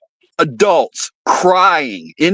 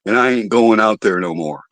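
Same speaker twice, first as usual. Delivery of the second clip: spooked guy; 4 semitones lower than usual. Retold or imitated. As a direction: hush it down like a secret. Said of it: "He says".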